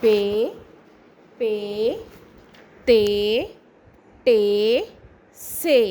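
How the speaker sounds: each syllable said alone, clear and spaced; repeat-after-me drill. Shown as a demonstration. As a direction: model each sound for the class to repeat. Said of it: "دہرا لیجیے".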